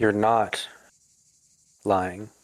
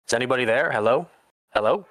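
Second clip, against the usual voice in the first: raised, questioning call into the distance; 4 semitones higher, 3 dB louder, faster than usual. Acted. Man searching the woods for someone, calling out. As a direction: call out for whoever might be there.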